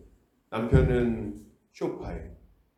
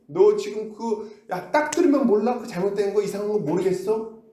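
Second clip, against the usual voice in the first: firm rebuke; 7 semitones higher than usual. Retold or imitated. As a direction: tell him straight, higher and pressing. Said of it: "이렇게 딱 얘기를 해줄 거 아니에요".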